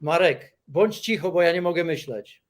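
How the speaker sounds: speaking Polish. Real, not acted. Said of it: "speak Polish to us".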